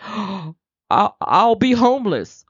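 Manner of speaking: spiral into dread, pitched high; panicked thinking. Retold or imitated. Worrier imagining losing home, high panicky cry. Crisis mode exercise, worried voice.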